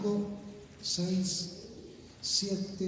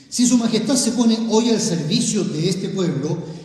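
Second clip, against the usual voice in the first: servicio hit firmly, louder than the words around it; stress on servicio; 3 dB louder than usual. Shown as a demonstration. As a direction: lean hard on the word servicio. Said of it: "voy a remarcar la palabra servicio". (acentuar con fuerza la palabra servicio)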